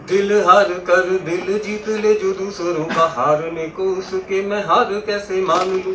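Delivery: slow, lilting verse recitation; half-chanted stage poem; poetry recitation. Acted. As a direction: recite it in drawn-out metrical lines.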